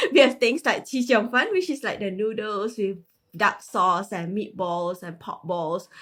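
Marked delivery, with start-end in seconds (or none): 0.8-1.5 name the dish Chi Xiong Fan the way it's said in Malaysia; said in Chinese. Real, not acted. Guest naming a Malaysian dish to the host, in Chinese. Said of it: "I'll say in Chinese".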